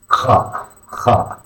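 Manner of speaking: KHA with the rasped ch of German Bach; throat-scraped KH. Shown as a demonstration. Teacher showing learners the letter, KHA rasped like Bach. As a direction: start KHA like the end of Scottish Loch. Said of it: "similar to the kha in the German Bach".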